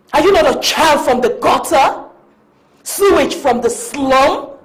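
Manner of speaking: sneering, scornful berating; cold contemptuous tirade; contemptuous scolding. Acted. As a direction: belittle her with disdain. Mistress berates the servant.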